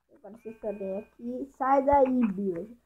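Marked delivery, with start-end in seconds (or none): 1.6-2.8 shooing away. Real, not acted.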